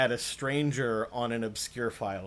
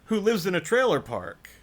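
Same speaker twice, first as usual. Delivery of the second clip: higher and louder, laughing through the disbelief; incredulous laughing protest; 9 semitones higher, 8 dB louder than usual. Retold or imitated. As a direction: retell it half laughing, half outraged at the accusation. Mock outrage at troll's insult.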